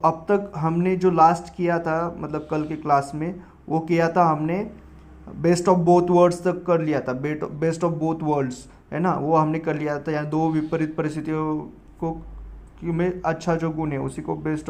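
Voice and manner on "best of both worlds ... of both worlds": slow dictation. Shown as a demonstration. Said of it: "dictating idiom slowly".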